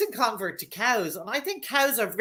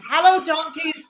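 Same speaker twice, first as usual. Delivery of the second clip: loud, higher call to the donkeys; raised, cheery holler; shouted greeting; 5 semitones higher, 6 dB louder than usual. Retold or imitated. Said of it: "if I shout at them".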